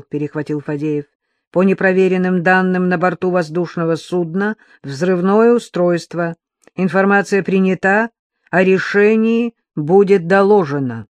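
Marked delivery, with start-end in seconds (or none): 1.5-11.1 crisp radio call. Acted. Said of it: "чётко произнёс".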